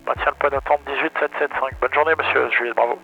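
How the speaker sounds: radio readback through the headset; over a pilot headset. Real, not acted.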